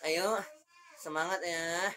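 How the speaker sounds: unexcited, toneless encouragement; nada lempeng. Shown as a demonstration. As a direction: encourage them with no lift at all. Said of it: "Tapi pakai intonasi". (ajakan semangat tanpa intonasi)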